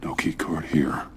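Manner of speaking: hushed whisper to himself. Acted. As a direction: whisper it, searching. Searching a room alone.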